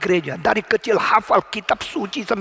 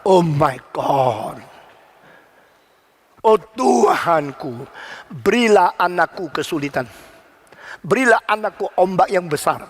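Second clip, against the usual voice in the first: solemn prayer. Retold or imitated. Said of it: "Dia berkata".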